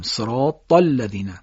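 صراط with a thick, heavy ص and ط; Arabic صراط with emphatic consonants; heavy sad and ta. Shown as a demonstration. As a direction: darken the ص and ط in صراط. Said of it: "صاد تا رو درشت بگیم".

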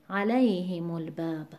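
علیهم الباب with "lay" of علیهم stressed; a-LAY-himul-bab for علیهم الباب. Shown as a demonstration. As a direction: keep "himu" light in علیهم الباب.

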